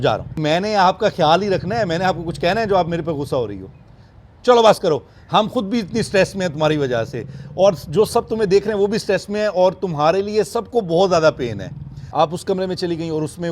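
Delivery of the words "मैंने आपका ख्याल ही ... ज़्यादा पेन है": louder, higher voice telling the lioness to stop; exasperated pleading with an angry lioness; pleading scold. Real, not acted. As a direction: scold her gently but loudly.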